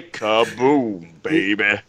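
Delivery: marauder line. Acted. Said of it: "They do say kaboom".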